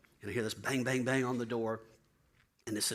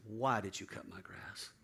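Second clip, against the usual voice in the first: softer, lower, slow asking; hushed, lowered why; low, wondering question; 4 semitones lower, 6 dB quieter, slower than usual. Retold or imitated. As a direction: ask in quiet amazement.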